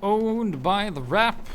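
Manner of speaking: loud, high gamer yell dragged out; excited yelling. Real, not acted. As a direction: scream the kill in triumph. Kill in game, yelling.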